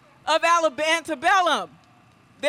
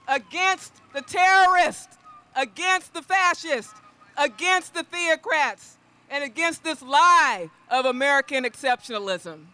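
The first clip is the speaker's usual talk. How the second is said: rally speech. Real, not acted. Recorded speech at abortion rally.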